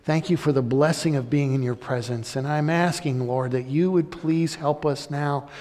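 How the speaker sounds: prayer. Acted. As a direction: pray aloud for the congregation. Leads the closing prayer.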